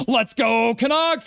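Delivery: high, drawn-out fan cheer. Real, not acted. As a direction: belt out the chat's cheer, rising high. Reads fan cheer aloud.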